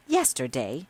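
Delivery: calm sister-in-law querying Yesterday; questioning echo. Acted. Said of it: "said her sister-in-law".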